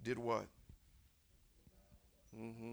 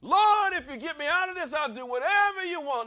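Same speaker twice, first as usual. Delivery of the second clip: acted loud, high plea to God; preacher imitating a desperate prayer; desperate begging; 12 dB louder than usual. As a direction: cry out a hammed-up bargain with the Lord. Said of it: "You know you begged".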